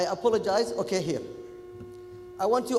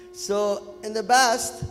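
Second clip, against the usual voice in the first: slow broken Kuwaiti English; 2 semitones higher, 5 dB louder, slower than usual. Retold or imitated. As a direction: read it slowly in a Kuwaiti accent. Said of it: "talking, uh, Kuwaiti English".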